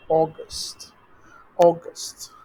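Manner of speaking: "অগস্ট" opened on a long "aw"; August with O. Shown as a demonstration. Teacher shows the O sound, "অগস্ট" as "aw-gust". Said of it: "অগস্ট হচ্ছে ও দে".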